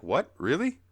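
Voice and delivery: high, loud mock surprise; startled question leaping upward; astonished Snorpy. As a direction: squeak it up in disbelief. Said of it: "And Snorpy's like".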